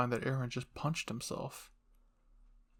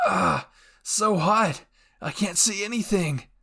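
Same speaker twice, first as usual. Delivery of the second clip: much higher, louder, slowed panicked outcry; startled cry; 6 semitones higher, 8 dB louder, slower than usual. Acted. Your Name shielding herself from the hot blast, crying out. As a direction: yelp as heat blasts your face.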